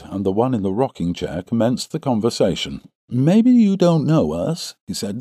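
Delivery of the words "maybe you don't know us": high, slow drawn-out character voice; young visitor Stangerson. A narrator's reading. Young Mormon introducing himself to the farmer, high-pitched. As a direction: open in a high-pitched put-on voice.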